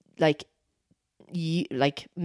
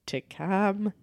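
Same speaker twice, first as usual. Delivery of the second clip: slow indignant retort; much slower than usual. Acted. Acted retort to calm down.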